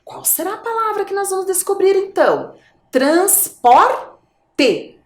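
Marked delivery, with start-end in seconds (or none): 2.9-4.9 "Transporte" sounded out as trans, por, pause, te; syllable by syllable. Shown as a demonstration. Teacher asking children for the last syllable, syllable by syllable. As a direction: split "Transporte" slowly, leaving a gap before te. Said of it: "Qual é a última sílaba".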